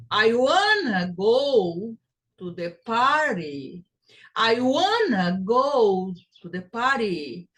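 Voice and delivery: slow, stressing "wanna" and "party". Shown as a demonstration. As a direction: spell it out slowly first. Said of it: "the time you take to pronounce the word".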